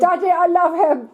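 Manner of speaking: high, pleading mock-whine echoing the joke; pleading son. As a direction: whine it up high to daddy, hamming it. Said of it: "Great big tracts of land".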